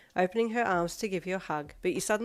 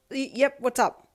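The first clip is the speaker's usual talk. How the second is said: startled; 7 semitones higher, 6 dB louder, slower than usual. A narrator's reading. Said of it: "you asked quickly".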